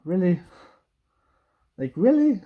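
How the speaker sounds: really thrown out high and incredulous; really, cranked up in mock outrage; exasperated disbelief. Real, not acted. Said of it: "That was just like".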